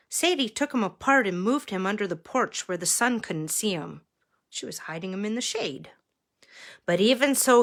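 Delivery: measured read-aloud with lifted key words; story narration. A narrator's reading. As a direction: read a picture book to children. Reads picture book to children.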